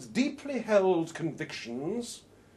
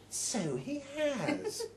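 amused agreement; 10 semitones higher, 4 dB quieter, much slower than usual. Acted. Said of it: "says Yvonne".

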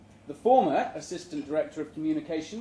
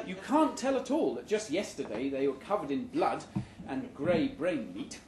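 laughing. Real, not acted. Reader laughing through the line.

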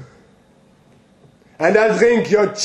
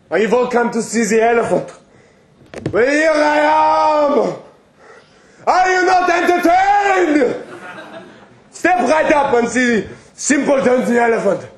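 snake oil seller; 6 semitones higher than usual. Acted. Showing himself off to crowd.

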